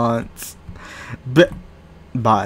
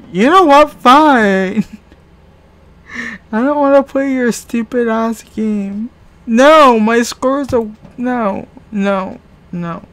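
angry; 8 semitones higher, 4 dB louder than usual. Real, not acted. Raging quit at the game.

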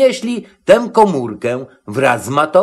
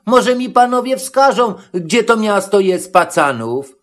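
higher-pitched little goat voice; high, polite inquiry; Matołek asking politely; 6 semitones higher than usual. A narrator's reading. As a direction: ask two strangers for directions, voice raised high. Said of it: "więc zapytał".

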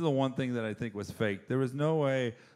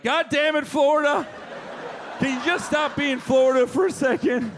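much higher, loud fed-up shout; exasperated yell; 11 semitones higher, 5 dB louder than usual. Retold or imitated. Everyone fed up with Florida, exasperated yell. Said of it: "you're like".

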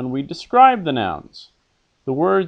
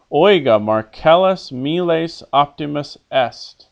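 cheer; 4 semitones higher, 5 dB louder than usual. Shown as a demonstration. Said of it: "I'll read what the character says".

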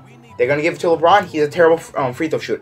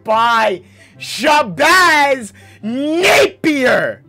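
raging gamer; 3 semitones higher, much slower than usual. Real, not acted. Drawn-out shouted complaint.

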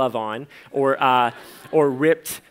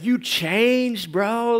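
imitating friend; 8 semitones higher, much slower than usual. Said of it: "that's what he said".

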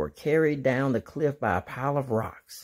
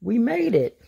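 higher, a little louder; mild shout; 6 semitones higher, 3 dB louder than usual. Acted. Dora shouting to friends on arrival, a mild mock shout. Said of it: "Dora shouted".

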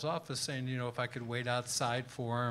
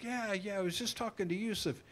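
Paul asking; 3 semitones higher, 3 dB louder than usual. Retold or imitated. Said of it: "He goes".

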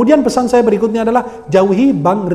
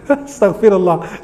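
slow, chuckled exclamation of disbelief; laughing exasperation; slower than usual. Real, not acted. Preacher despairing over a persistent follower, laughing exasperation.

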